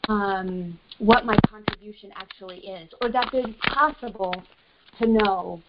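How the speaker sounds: breaking up on a bad phone line; static on the line. Real, not acted. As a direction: voice drowned in crackling static. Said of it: "I think there's a lot of static on the line".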